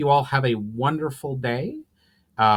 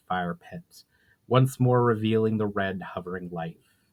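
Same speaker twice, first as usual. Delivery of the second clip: even, measured storyteller's read; story narration; 4 dB louder than usual. A narrator's reading. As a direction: tell the tale steadily to listeners.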